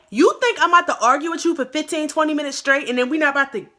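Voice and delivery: student squaring up to a classmate, fast and loud; retold heated challenge. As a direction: confront her in a rushed rant. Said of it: "And I'm like".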